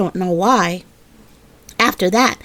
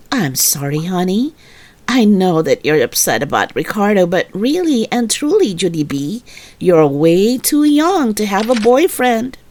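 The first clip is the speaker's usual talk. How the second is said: lower, patient motherly voice; gentle mother; 3 semitones lower than usual. Acted. Mother comforting her upset daughter, lower and patient. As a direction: soothe your little daughter kindly.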